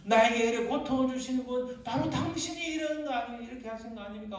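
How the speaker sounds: acted cry of protest, swelling midway. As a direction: build into a loud accusing question. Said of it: "막 그렇게 외치는 거예요". (항의하듯 점점 커지는 외침)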